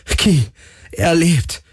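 very high, elated cries; jubilant. A narrator's reading. Galen cheers to Kirai that his friend lives, high and jubilant. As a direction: exult in it, pitch soaring. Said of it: "jubelte Galen".

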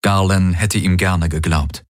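ordinary delivery

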